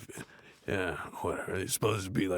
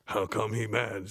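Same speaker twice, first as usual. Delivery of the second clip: Cedric the Entertainer. Retold or imitated. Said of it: "says Cedric the Entertainer".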